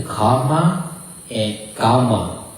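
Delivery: slow side-by-side "karma and karma", each said differently; "karma and karma" slowly compared; karma two ways. Shown as a demonstration. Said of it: "But we pronounce".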